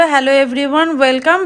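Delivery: loud, slow teacher imitation; mock teacher greeting. Mother teasing child about online class, mock teacher greeting. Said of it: "ও এসেই বললো".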